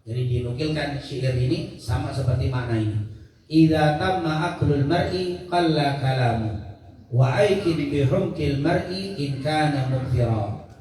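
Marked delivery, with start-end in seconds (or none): 3.5-10.7 slow, measured verse reading; Arabic verse recitation. Acted. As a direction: recite the couplet with drawn-out syllables. Reads an Arabic verse aloud. (membaca syair Arab dengan pelan)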